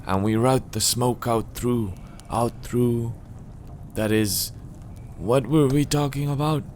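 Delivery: lightly voiced old man losing his thread; halting, forgetful old hermit; absent-minded old man. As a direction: trail away, then ask in confusion. Reader plays Donald losing his thread.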